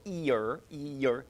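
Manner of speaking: ear said quick, no stop between E and er; rushed ear. Shown as a demonstration. Teacher shows the wrong quick ear. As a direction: skip the juicy middle of ear. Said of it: "you're skipping the good part".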